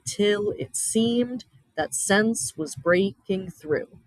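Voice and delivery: slow, measured poetry reading with pauses; poem reading. Acted. Teacher reading Emily Dickinson to the class, slow and measured. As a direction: let each line hang before the next.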